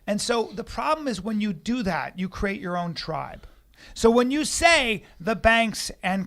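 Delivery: preaching with swelling emphasis; evangelist. Real, not acted. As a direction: sermonize earnestly, hitting key words. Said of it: "you sound like on some evangelist".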